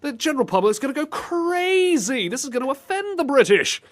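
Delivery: high-pitched hammed-up alarm; mock outrage. Host warning the public will be offended, high mock outrage. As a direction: wail it high, playfully scandalised.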